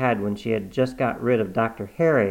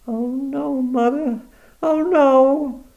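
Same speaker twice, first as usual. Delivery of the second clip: higher, gentle worried daughter; anxious daughter; 6 dB louder, much slower than usual. Acted. Cornelia asking her dying mother how she feels, worried.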